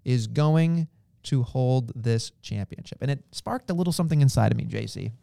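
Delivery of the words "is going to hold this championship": quoting a promo. Retold or imitated. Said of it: "he did say".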